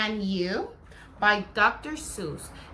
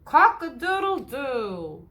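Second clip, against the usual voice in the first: slow cock-a-doodle-doo, a bit higher and louder; rooster crow; 4 semitones higher, 4 dB louder than usual. Shown as a demonstration. Teacher crowing like a rooster for the children. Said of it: "He can sound like a rooster".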